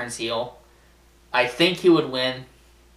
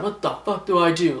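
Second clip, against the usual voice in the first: higher-pitched mock panic; distraught wrestler; 4 semitones higher than usual. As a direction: act out a wrestler at his wit's end. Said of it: "John Cena's like".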